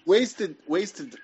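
loud call for attention. Real, not acted. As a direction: call his name over the others. Calling out to a friend.

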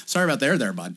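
mock Canadian apology; casual apology in a put-on Canadian accent. Canadian minder apologizing for a snowball hit, mock Canadian accent. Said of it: "Canadians are".

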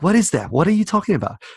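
high, puzzled mock questioning; imitating confusion. Imitating the Texan roommate who can't follow, puzzled.

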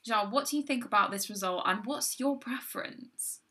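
measured, formal news-anchor read; newsreader voice. Acted. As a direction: present it like the evening news. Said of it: "I love it when you do the newsreader voice".

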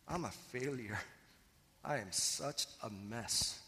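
slow, downcast self-judgment; despairing inner voice. Retold or imitated. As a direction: let it sink, a man ashamed. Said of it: "he can't help but to feel worse".

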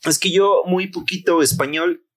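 slow, halting French tourist's broken Spanish; mock French accent in broken Spanish. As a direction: imitate a Frenchman groping for Spanish words, slowly. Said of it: "Y me dice".

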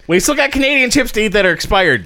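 laughing. Real, not acted. Laughing while pointing out chips.

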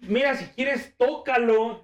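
a hint of a seductive teacher. Teacher voiced, raised pitch.

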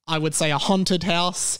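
haunted said as hawn-ted with an open ah vowel; his own pronunciation. Shown as a demonstration. Host showing listeners his haunted, hawn-ted. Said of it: "That is how I would say that word".

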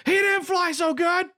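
high, drawn-out mock character voice; put-on movie-quote voice. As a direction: deliver the quote slow, high and exaggerated. Quoting a film line in put-on voice.

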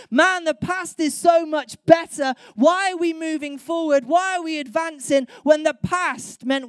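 hammed-up fearful Israelite; panicked complaining. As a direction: cry out as if doomed at the sea. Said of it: "I'd be thinking".

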